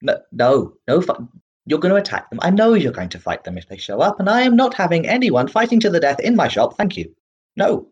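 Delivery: a fussy halfling putting his foot down; halfling shopkeeper refusing an ambush in his shop; flustered shopkeeper. Acted.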